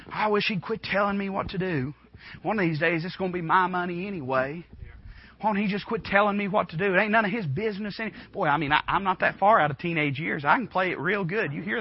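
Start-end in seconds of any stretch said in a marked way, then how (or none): 0.1-8.1 put-on sulky teenager. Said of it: "Can't you hear him say that".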